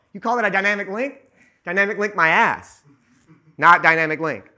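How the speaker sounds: loud scornful dismissal; angry rant. Real, not acted. Editor ranting at Adobe's dynamic link, loud and scornful. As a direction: spit it out, fed up. Ranting about slow software.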